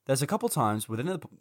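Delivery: hungover, losing the line. Real, not acted. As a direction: stumble through it hungover. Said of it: "I'm so hungover".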